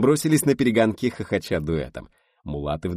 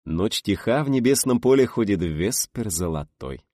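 declaiming verse; 4 semitones higher, 5 dB louder, slower than usual. A narrator's reading. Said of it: "с выражением продекламировал Харатьян".

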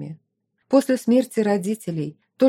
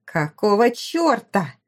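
yelled; slower than usual. Acted. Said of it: "заорала Аделла".

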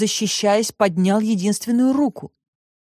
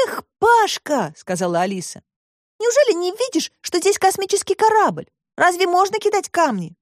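put-on much higher girl's voice, scolding; girl Alice, reproachful; 10 semitones higher than usual. A narrator's reading. Alice scolds Pashka, higher girl's voice.

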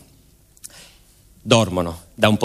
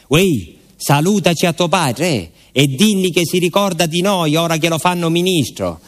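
higher, joking Southern farewell; teasing fellow traveller; 6 semitones higher than usual. Acted. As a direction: tease him about his father. Traveller teasing about father. (saluto scherzoso, voce più alta)

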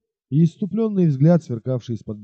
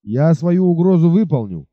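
shouted threat; 3 semitones higher, 4 dB louder than usual. Acted. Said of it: "крикнул".

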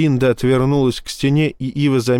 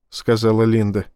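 ordinary delivery

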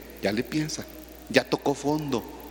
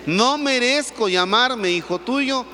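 humble plea; 5 semitones higher, slower than usual. Retold or imitated. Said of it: "ayúdenme, échenle".

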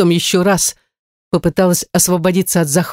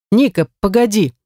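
mild call after someone, pitched higher; 4 semitones higher than usual. A narrator's reading. Man stops acquaintance as she walks away, calling out. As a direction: hail her lightly, voice raised in pitch. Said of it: "Неожиданно он меня окликнул".

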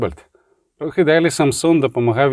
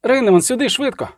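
higher, hurried call for help; urgent call; 9 semitones higher than usual. Acted. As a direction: summon him fast, urgently. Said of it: "пронизливо крикнула вона". (нагальний поклик, вище)

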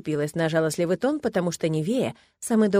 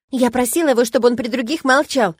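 higher, louder quick nervous telling; rapid patter; 5 semitones higher, 7 dB louder than usual. A narrator's reading. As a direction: rush the words out nervously. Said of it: "начала она скороговоркой". (скороговорка, нервно)

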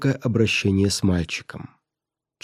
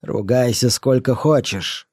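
dismissive; slower than usual. Acted. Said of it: "ответил ей брат".

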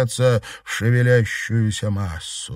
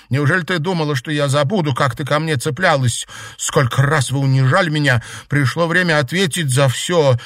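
raised, louder reproach; angry accusation; 5 semitones higher, 4 dB louder than usual. Acted. Girl confronting the classmate who humiliated her, angry accusation. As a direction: throw old grievances in their face. Acted tirade against a former tormentor.

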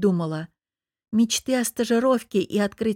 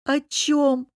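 high, bitter scoff through a grimace; grimacing scoff; 7 semitones higher than usual. A narrator's reading. Tearful Lera scoffing at talking to her husband. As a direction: sneer the question. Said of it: "скривилась я".

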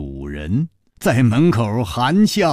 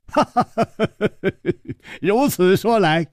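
higher, hearty clapping laugh; 10 semitones higher than usual. Acted. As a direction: laugh triumphantly, trap sprung. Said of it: "抚掌笑道". (楚留香抚掌大笑，得意揭穿)

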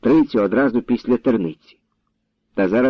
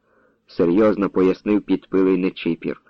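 plain reading voice

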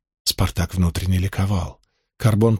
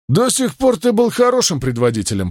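drawling; 9 semitones higher than usual. Acted. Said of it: "протянул Ганик".

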